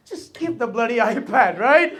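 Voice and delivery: exasperated plea. Retold or imitated.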